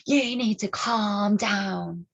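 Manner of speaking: slow, drawn-out put-on voice of the woman; imitating condescending woman. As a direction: lecture her slowly and patronizingly. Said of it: "And she's like".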